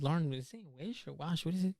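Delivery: hushed whisper to a friend; whispered aside. Retold or imitated. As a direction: lean in and whisper. Whispering to classmate.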